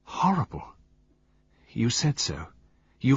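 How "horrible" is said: voiced, high-pitched repeat of "Horrible". A narrator's reading. Pamela repeating the word to Poirot, high and distressed.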